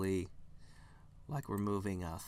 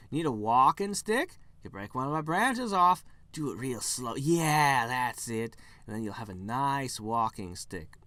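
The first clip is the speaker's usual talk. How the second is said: creepy eager tree; 2 semitones higher, 6 dB louder than usual. Acted. Tree offering a branch.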